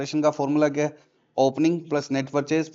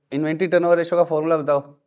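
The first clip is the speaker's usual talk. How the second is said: firm demand; 3 semitones higher, 6 dB louder than usual. Real, not acted. Teacher demands formula from student.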